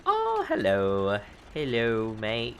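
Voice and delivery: slow, drawn-out Australian hello; Australian accent. Pretend. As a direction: greet viewers as a mock Aussie. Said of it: "I greeted you in, like, an Australian mate".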